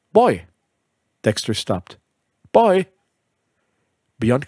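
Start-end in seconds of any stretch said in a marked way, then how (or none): 0.1-0.5 a sharp, higher call across the green. Acted. Little girl calls out to the caddy boy, loud and high. 2.5-2.9 a sharp, higher call across the green. Acted. Little girl calls out to the caddy boy, loud and high.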